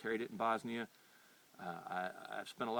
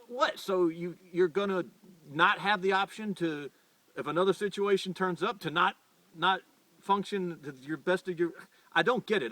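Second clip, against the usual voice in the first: louder and higher, really heated now; worked up; 5 semitones higher, 4 dB louder than usual. Real, not acted. Ranting to viewers about rival ammo, worked-up louder voice. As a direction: get genuinely fired up and exasperated. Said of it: "and I'm getting worked up".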